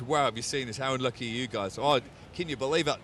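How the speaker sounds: put-on light New Zealand accent; lightly put-on Kiwi voice. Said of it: "That was my Kiwi accent for Dan".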